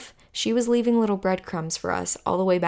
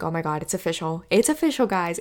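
freaking out; faster than usual. Retold or imitated. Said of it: "And I'm freaking out".

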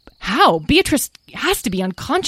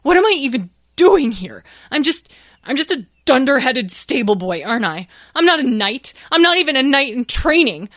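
crying despair; 11 semitones higher, 6 dB louder than usual. Acted. Tom breaks down before sobbing.

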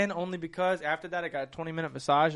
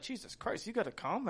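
urgent high whisper; whispered Kayla; 5 semitones higher, 9 dB quieter than usual. Retold or imitated. Voicing Kayla in story.

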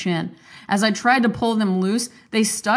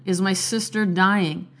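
recited like a poem. Shown as a demonstration. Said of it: "let me list these books 'cause it sounds like a poem".

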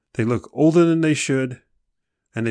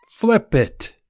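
high, loud punchy order; emphatic command; 9 semitones higher, 4 dB louder than usual. Real, not acted. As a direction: snap them out of victim mode. Commanding listeners to reframe.

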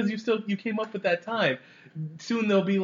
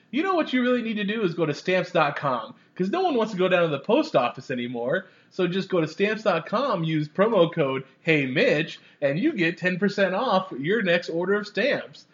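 podcast ad read. Pretend. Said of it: "commercials like".

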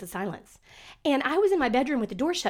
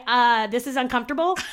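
incredulous quote; 4 dB louder than usual. Retold or imitated. Friend texting about overheard Zoom remark, incredulous. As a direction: ask "uncomfortable?" as if unable to believe it. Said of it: "she said".

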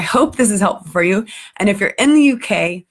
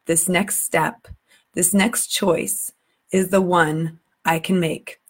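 slow, hushed reading of the lyrics, letting each line sink in; emotional poem reading; slower than usual. Acted. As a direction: read it like a sad poem, slowly. Reads song lyrics aloud.

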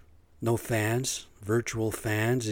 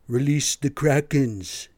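hammed-up, drawn-out, higher battle order; mock dramatic command; 4 semitones higher, 5 dB louder, slower than usual. Comparing police dogs to monsters, mock dramatic command. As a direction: draw out a mock villain's command.

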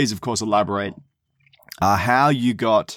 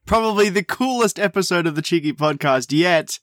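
grand entrance announcement; 2 semitones higher than usual. Acted. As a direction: announce it like a ringmaster. Podcast intro announcement.

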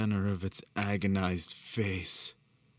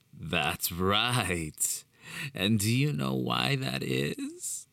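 excited; 5 semitones higher, much slower than usual. A narrator's reading. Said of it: "he asked excitedly".

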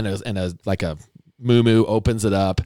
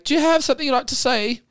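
put-on much higher, pointed question to the kid; pointed mom prompt. Mom pressing her son to speak, high and pointed.

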